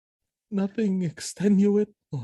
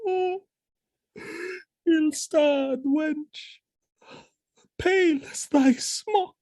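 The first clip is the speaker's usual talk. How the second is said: higher, slow and tearful; grief-stricken; 6 semitones higher than usual. Acted. Othello weeping over dead Desdemona, crying. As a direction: mourn over her body.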